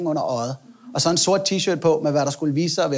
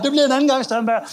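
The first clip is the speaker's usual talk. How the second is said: bladder voice; 6 semitones higher than usual. Retold or imitated. Bladder voiced talking to him.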